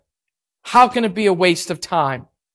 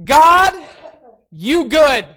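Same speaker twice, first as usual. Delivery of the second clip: retold yell; 8 semitones higher, much slower than usual. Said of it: "I said three words".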